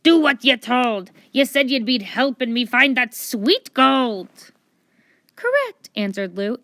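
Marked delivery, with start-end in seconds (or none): 0.0-4.5 louder pirate bark; louder gruff pirate demand. Acted. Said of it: "he barked at Lou". 5.4-5.9 bright librarian correct. Acted.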